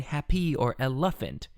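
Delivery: "happy" as hap-PEE, "elephant" as el-LE-phant; "happy" and "elephant" with deliberately misplaced stress; misplaced accents. Shown as a demonstration. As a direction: put the stress on the wrong syllable of "happy" and "elephant". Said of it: "It just sounds wrong".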